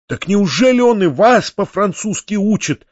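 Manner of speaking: high, startled exclamation; near fright. A narrator's reading. Nephew asks peasants about French lessons, nearly frightened. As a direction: ask with a touch of alarm. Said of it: "вскричал я почти в испуге".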